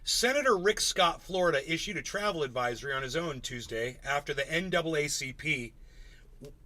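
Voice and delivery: slow, deliberate news read; slow headline read. Shown as a demonstration. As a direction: read the headline slowly and clearly. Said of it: "I could say that a few more times".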